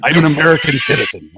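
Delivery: put-on foreign film star's shaky American accent; unconvincing put-on American accent; bad American accent. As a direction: overdo a fake American accent. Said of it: "make him play an American".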